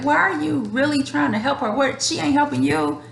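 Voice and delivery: mock a close friend nagging her to drop it; exasperated friend. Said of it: "I get dragged for people that's really close to me".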